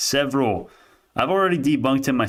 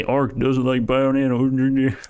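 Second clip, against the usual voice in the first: slow, sneering parody of critics; mocking quote; 2 semitones higher, much slower than usual. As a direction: drag it out like a dumb claim. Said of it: "I hate when people say".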